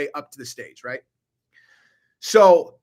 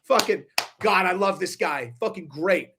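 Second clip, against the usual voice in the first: mock delighted Will Smith; 3 semitones higher, 4 dB louder, slower than usual. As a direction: stretch the final love this guy out slowly, beaming. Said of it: "he's like".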